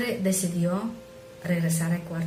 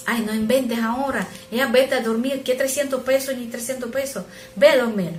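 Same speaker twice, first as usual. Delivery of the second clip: annoyed father; 5 semitones higher, 5 dB louder than usual. Retold or imitated. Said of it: "papá se enojó y dice".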